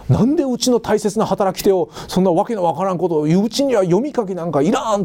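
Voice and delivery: lightly voiced protesting farmer; mild mock indignation, as a farmer objecting to school; 反発する農民. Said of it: "それに反発する農民は多かった". (農民の抗議を軽く真似て)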